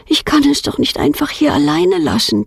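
put-on girl's thought. A narrator's reading. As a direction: think it aloud as a determined little girl. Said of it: "denkt Petronella".

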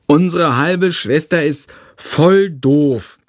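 put-on a little kid asking to join in; little brother. Tom voiced.

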